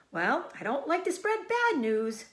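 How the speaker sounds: high, loud gossipy sheep; old sheep voice. Acted. Old sheep breaking news to Wilbur, high and loud. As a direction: relish the gossip.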